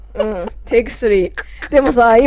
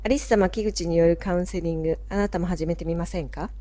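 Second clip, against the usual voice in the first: announcer voice; 2 semitones lower, 6 dB quieter than usual. Shown as a demonstration. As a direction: read it like a radio spot. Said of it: "ダメだわ、やっぱり読んだら。".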